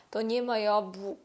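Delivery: яблук said as the clumsy version; wrong form. Shown as a demonstration. Teacher showing the wrong form of яблука. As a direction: show the hard form яблук. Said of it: "Дуже складно прочитати".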